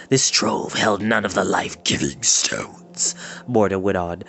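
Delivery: a hint of a low, sneering old wizard; cold scorn of a wicked wizard, lightly voiced; lightly voiced wizard Morda. Wizard gloating to his captives, lightly voiced sneer.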